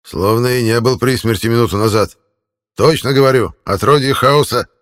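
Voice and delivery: put-on an old man ranting in disgust; creaky old man voice. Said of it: "старческий голос".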